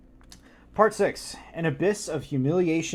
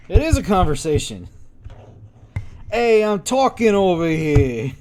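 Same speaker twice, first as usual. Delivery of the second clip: yelling at the cat over its meowing; mock loud complaint; 3 semitones higher, 7 dB louder than usual. Real, not acted. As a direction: call over the noisy cat in mock outrage.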